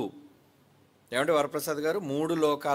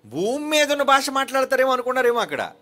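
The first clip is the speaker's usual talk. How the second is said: higher and louder, ringing out from the pulpit; preaching exclamation; 10 semitones higher, 7 dB louder than usual. Real, not acted. Preacher stirring the congregation about heaven, loud and high. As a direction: proclaim it with full force.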